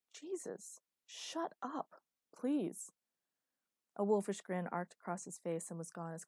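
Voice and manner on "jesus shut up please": in awe. Acted. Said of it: "almost in awe".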